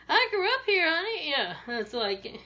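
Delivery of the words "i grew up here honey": put-on Maryland accent.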